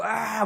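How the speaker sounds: mock pressed-throat shout; strained yell demo. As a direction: show the pushed throat yell. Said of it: "막 이렇게 막 했어요". (목을 눌러 지르는 소리 흉내)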